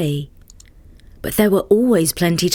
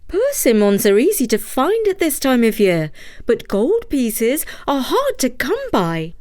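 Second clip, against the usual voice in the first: put-on higher, wry old wife; wife's voice; 4 semitones higher than usual. Wife doubting the gold to Takitori, higher voice.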